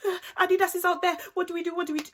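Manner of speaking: high, panicky mock wail; mimicked crying and vexed. Little sister thrown into the locked room, high imitated crying. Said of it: "she's crying and she's vexed".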